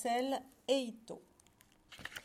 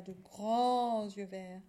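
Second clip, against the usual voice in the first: GRANDS stretched long and swelling louder; drawn-out emphasis; 4 dB louder, much slower than usual. Real, not acted. Describing the cat to listeners, GRANDS drawn out. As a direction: linger admiringly on "grands". Describing the cat's huge eyes.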